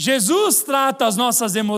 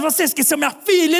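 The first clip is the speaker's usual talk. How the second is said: put-on scolding yell, held in; 4 semitones higher than usual. Retelling a woman in the park shouting on the phone: imitating someone yelling. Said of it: "E gritando".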